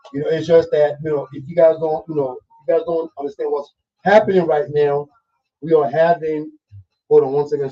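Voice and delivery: talking with gum in the mouth; chewing gum while talking. Real, not acted. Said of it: "'cause I have gum in, in my mouth".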